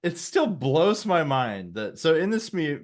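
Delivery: ordinary talk, nothing marked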